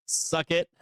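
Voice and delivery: gloating jeer with laughter; mock dealer laughing in their faces; laughing taunt. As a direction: taunt them through a laugh.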